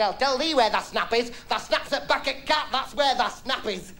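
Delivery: a hint of a cross wife; wife slowly putting him straight; wife snapping back. Wife voiced answering back.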